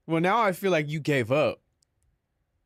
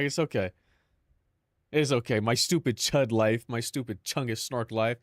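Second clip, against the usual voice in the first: mock crying; 4 semitones lower than usual. Streamer consoles self over a stupid life, mock crying. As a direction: play at weeping pitifully over your lot. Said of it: "We're all crying in here".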